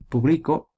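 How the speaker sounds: "público" stressed on BLI, as pu-BLI-co; stress on middle syllable. Shown as a demonstration. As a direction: hit the second syllable of "público". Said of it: "es grave".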